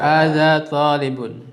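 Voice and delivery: slow, clear "Hadza talibun"; slow model reading. Shown as a demonstration. Teacher slowly models "Hadza talibun" to the class. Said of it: "Coba diikuti".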